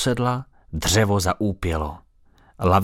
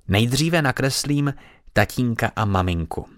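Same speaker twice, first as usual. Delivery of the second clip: said importantly; 3 semitones higher than usual. Acted. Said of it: "řekla důležitě".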